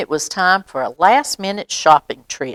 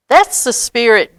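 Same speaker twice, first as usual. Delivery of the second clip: loud, higher booming line; 5 semitones higher, 5 dB louder than usual. Acted. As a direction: boom it out proudly. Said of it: "boomed Santa".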